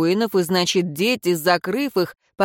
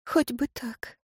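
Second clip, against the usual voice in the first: long sigh; 5 semitones higher, 8 dB quieter, slower than usual. A narrator's reading. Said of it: "протяжно вздохнула Ирейн".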